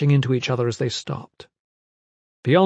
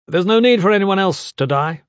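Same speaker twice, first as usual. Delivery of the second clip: raised, higher commanding voice; shouted; 7 semitones higher, 5 dB louder than usual. A narrator's reading. Gavin turns his back and addresses the nobles, shouting. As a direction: call it out loudly to everyone. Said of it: "he shouted".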